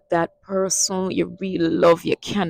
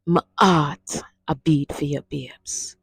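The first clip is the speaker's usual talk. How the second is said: softer tender repeat, "babes" near a whisper; with love and passion; 3 dB quieter than usual. Shown as a demonstration. Teacher repeating the love line softly for lovers. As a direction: murmur it to the one you love. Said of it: "say it with that love and that passion".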